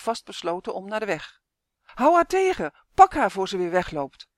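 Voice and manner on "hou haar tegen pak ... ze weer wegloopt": calling out. Acted. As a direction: yell for help catching the hen. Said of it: "riep iemand".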